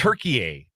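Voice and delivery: "Turkey" said as tur-kee-AY; attempted native pronunciation. Shown as a demonstration. Host showing co-host the renamed country, native pronunciation. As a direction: end "Turkey" on an added "ay" sound. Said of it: "I think that's how you pronounce it".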